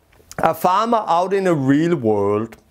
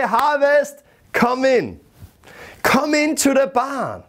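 raised calling voice to the field; farmer calling out; 6 semitones higher than usual. Retold or imitated. Farmer calls his harvest into the barn, high calling voice. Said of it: "he will say".

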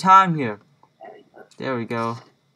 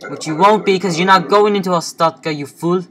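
mocking taunt; 4 semitones higher, 5 dB louder than usual. Guard mocking denied entrant.

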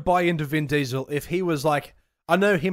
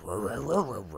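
Iron Giant noises; 6 semitones lower, 6 dB quieter, faster than usual. Retold or imitated. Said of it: "Iron Giant as a voice actor".

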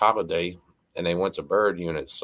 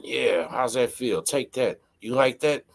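high, slow, taunting West Texas voice; mock sex taunts; 6 semitones higher, slower than usual. Inmate taunting his partner in the bunk, mock high taunting voice. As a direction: ham up the cocky inmate's taunts. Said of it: "he's over there going".

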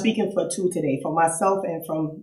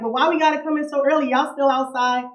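put-on much higher and fast, a whiny young girl; childish complaint; 7 semitones higher than usual. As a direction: protest like a kid sent indoors too early. Acting her younger self complaining.

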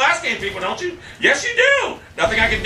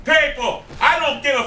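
furious shout; 7 semitones higher than usual. Real, not acted. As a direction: scream it in real rage. Raging at a player mid-game.

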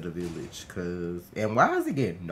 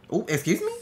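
mild surprise; 9 semitones higher, 6 dB louder, faster than usual. Real, not acted. Spots a snake.

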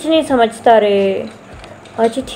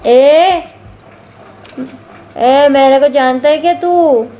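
put-on tough tapori girl. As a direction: bark it like a Mumbai gang girl. Tough girl threatening newcomer.

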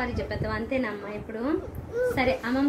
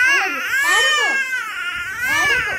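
high loud pleading; 10 semitones higher, 6 dB louder, slower than usual. Real, not acted. Mother over a crying child.

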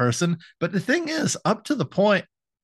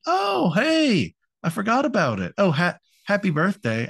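ditzy Lenore; 7 semitones higher than usual. Retold or imitated. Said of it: "And she's like".

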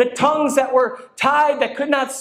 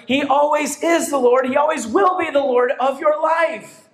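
1 preaching shout; 2 semitones higher than usual. Real, not acted. Preaching crescendo on Lord.

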